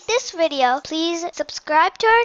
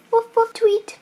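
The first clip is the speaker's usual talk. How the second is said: high woofs, then a tweet; high-pitched animal calls for children; puppy and bird calls; 5 semitones higher than usual. Acted. Voicing puppy and bird in story.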